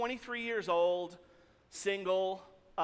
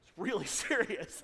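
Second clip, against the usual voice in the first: louder, mock-earnest agreement; playing along; 3 semitones lower, 3 dB louder than usual. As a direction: pretend you know exactly what this is about. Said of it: "do I play along?".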